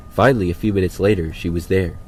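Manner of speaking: plain reading voice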